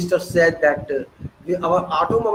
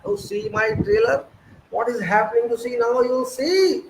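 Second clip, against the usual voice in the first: mock gloating leader; 5 semitones higher than usual. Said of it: "you are feeling pleased".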